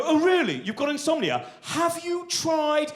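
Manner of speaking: eager helpful busybody, pitched high; nosy adviser. Retold or imitated. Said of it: "they go".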